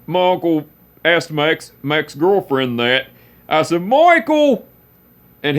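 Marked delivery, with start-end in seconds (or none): 3.8-4.7 high, loud reproachful cry of his name; scolding call. Retold or imitated. Nephew protesting uncle's teasing, loud reproach. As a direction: call him out, half laughing.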